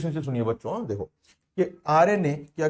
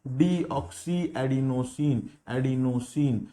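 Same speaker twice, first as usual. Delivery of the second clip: डीऑक्सी एडिनोसिन drawn out slowly, stress on डीऑक्सी; slow drilled term; 4 semitones lower, slower than usual. Shown as a demonstration. Teacher slowly answering his own question for students. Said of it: "क्या बोलेंगे उसको बच्चों?".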